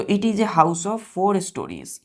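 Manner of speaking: it is a house of four stories said slowly, word by word; slow dictation. Shown as a demonstration. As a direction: dictate the sentence slowly to the class. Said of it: "जैसे कि हम बोलते हैं".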